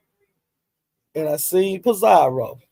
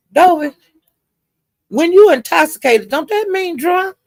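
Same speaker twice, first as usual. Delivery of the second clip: high, louder incredulous ask; pointed question; 11 semitones higher, 3 dB louder than usual. Retold or imitated. Pizarro asking Dovey, high and incredulous. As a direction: put the question sharply to Dovey.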